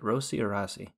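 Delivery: "Rossi" first with an OH vowel, then with an AH; two pronunciations of Rossi. Shown as a demonstration. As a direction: contrast "Rossi" as ROH-see, then RAH-see. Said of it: "How do you say it?".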